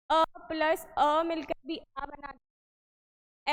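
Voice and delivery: slow, drawn-out teacher repeat of अ plus अ. Shown as a demonstration. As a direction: spell it out slowly so students follow. (धीरे धीरे समझाते हुए दोहराना)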